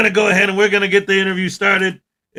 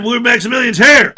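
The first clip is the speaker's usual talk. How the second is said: emphatic repeat announcement; 4 semitones higher, 4 dB louder than usual. Shown as a demonstration. Host re-announcing an arrival to viewers, emphatic repeat. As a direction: hit HERE harder at the end.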